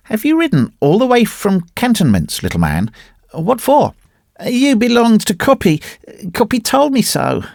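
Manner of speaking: put-on high-pitched little boy's wail; disconsolate wail. A narrator's reading. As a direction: wail like an upset small child. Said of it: "wailed wee Willie Winkie disconsolately".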